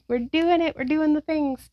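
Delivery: upbeat little pep talk; cheering on. Real, not acted. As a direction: cheer the class along, ready to laugh. Cheers the class on mid-stretch.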